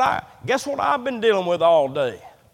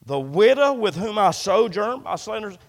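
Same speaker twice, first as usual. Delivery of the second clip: Elijah's anguished prayer; 5 semitones higher than usual. Acted. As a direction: plead and argue with God for the widow's son. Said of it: "Elijah cried to the Lord and said".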